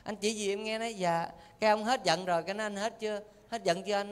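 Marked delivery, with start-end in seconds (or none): 0.0-1.3 soft, submissive wife's replies; hushed, dutiful little voice; meek wife. Acted. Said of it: "Bà vợ im ru". 2.6-4.1 quiet, careful wife's question; hushed and placating, lightly acted; meek wife. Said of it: "Bà vợ im ru".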